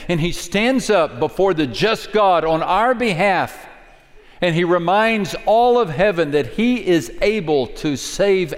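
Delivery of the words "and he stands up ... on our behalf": normal talking voice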